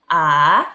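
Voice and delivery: A rising upward; tone two. Shown as a demonstration. Teacher quizzing tone two on A. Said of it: "Nada dua seperti apa?".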